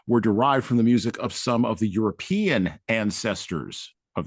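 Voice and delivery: measured, emphatic book reading; reading aloud. Acted. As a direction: read a weighty essay passage out to listeners. Reads book passage aloud.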